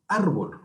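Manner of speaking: "árbol" con fuerza en "ár"; acento en la penúltima sílaba. Shown as a demonstration. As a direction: carga la voz en el inicio de "árbol". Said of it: "La penúltima sílaba". ("árbol", marcando la primera sílaba)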